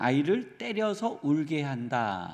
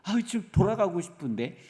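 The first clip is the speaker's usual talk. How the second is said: grumbling Israelites; 5 semitones higher than usual. Retold or imitated. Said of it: "이러한 불평으로 가득한 거예요".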